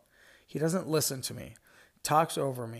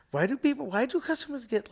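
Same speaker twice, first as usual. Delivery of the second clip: exasperated; 11 semitones higher, 6 dB louder, faster than usual. Real, not acted. Exasperated rant.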